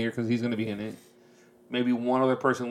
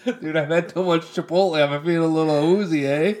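lightly put-on Canadian accent, a little higher, leaning on eh; mock Canadian; 4 semitones higher than usual. Picking up his co-host's bit, mock Canadian accent. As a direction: echo the Canadian joke, hamming up the eh. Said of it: "Now it's a Canadian watching American football".

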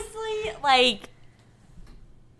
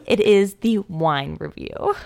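host intro; 4 semitones lower, slower than usual. Acted. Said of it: "Let me redo that".

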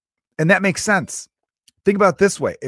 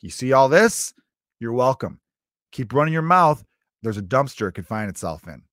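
mock stern dad; 4 dB louder than usual. Dad to a bratty kid about the presents, mock stern. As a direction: put the kid in his place, half-joking.

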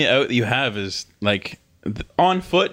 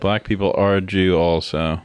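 reading a bad tweet; 5 semitones lower than usual. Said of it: "that was atrocious to read".

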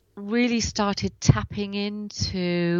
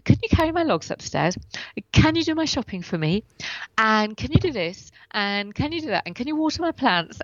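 asking for help; 3 semitones higher than usual. Retold or imitated. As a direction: reel off favors to friends. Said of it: "And I'm constantly saying".

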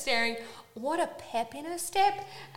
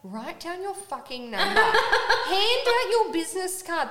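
mad; 6 semitones higher, 5 dB louder than usual. Retold or imitated. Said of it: "I was so mad".

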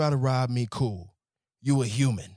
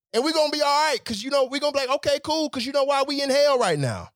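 excited; 7 dB louder, faster than usual. Real, not acted. Excited rant.

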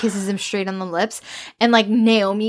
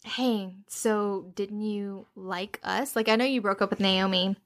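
put-on soft child voice; 10 dB quieter, slower than usual. Voicing the child Waylay.

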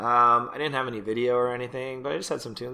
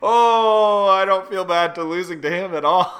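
laughing quote; 5 semitones higher, 6 dB louder than usual. Retold or imitated. Retold own reaction, laughing.

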